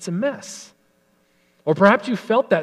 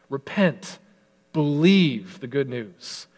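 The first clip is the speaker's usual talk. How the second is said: Jesus proclaiming; slower than usual. Acted. Jesus proclaiming good news.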